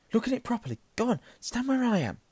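high-pitched, loud, impatient urging; urgent insistence. Acted. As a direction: push your friend to try, pitch right up. Harry urging Ron to look properly.

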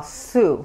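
"sue" with a hissed S, tongue tip near the front teeth. Shown as a demonstration. Teacher demonstrating to Spanish speakers: "sue" with a plain S. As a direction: say "sue" with a crisp unvoiced S. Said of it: "sue, con S".

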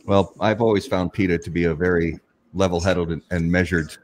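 dry, deadpan sarcasm; sarcastic. Acted. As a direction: say it with mock sincerity. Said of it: "That was sarcasm".

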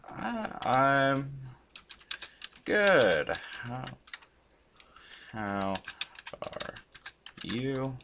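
word by word, with long gaps; halting dictation to yourself while typing; slow typing pace. Real, not acted. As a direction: sound out each word as you type it. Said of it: "Sorry, I'm a slow typer too".

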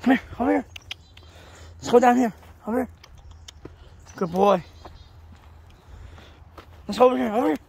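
loud, high calls to a dog; calling from far away. Real, not acted. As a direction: call him over across distance.

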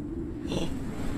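sudden breathy gasp. Real, not acted. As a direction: suck in air, startled. Startled by the game.

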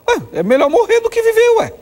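a high, ironic leap of voice; mock naive logic. Preacher mocking the heaven belief, ironic high lilt. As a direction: play it as a sarcastic so-what.

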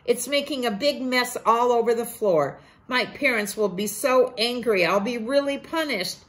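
put-on boy Ko begging Tio to stop, mildly frantic; panicky little boy. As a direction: plead in a rush like a scared kid. Ko panicking about the mess.

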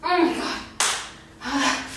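slow breathless groan; drained, breathless. Real, not acted. Exhausted mid burpees.

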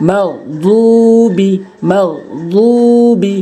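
"মাগদুবি" slowly, "দু" drawn out; এক আলিফ টান. Shown as a demonstration. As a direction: hold the "দু" in "মাগদুবি". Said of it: "এক আলিফ টেনে উচ্চারণ করবেন". ("মাগদুবি"-র "দু" এক আলিফ টেনে)

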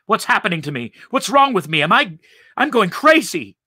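high, loud, panicked questioning; building panic, pitch climbing; alarmed cry. A narrator's reading. Man doubting his sanity amid a vision, panicked cry. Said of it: "he cried".

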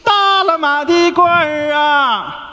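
slow drawn-out hawker's call; street vendor's cry. Shown as a demonstration. Shopkeeper shows the apprentice the call, slow drawn-out hawking. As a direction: cry it out like selling in the market. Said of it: "来啊".

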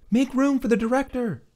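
put-on high, firm young woman; firm command. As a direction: order them to make room. Loriana commands agents.

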